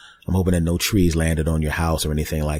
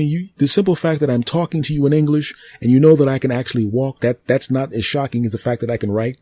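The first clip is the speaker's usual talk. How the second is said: higher, brisk know-it-all tree voice; a living tree explaining itself to the human, high and smug; talking tree; 6 semitones higher than usual. Acted. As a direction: play the tree, smug and amused. Tree character lectures.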